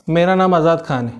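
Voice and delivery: rushed, quick delivery of the name; fast speech. Shown as a demonstration. Teacher demonstrating speaking too fast. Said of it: "मेरा speed बहुत तेज़ था".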